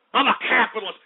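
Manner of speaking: forceful, indignant declaration; emphatic declaration. Real, not acted. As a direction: declare it firmly, short of a scream. First declaration in a heated rant.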